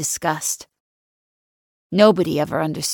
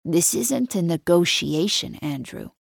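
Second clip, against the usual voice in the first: 1 patient; 3 dB quieter than usual. Acted. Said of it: "I say patiently".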